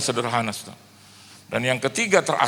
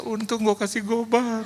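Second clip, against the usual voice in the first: inner thought; 8 semitones higher than usual. Retold or imitated. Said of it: "Dalam hati saya".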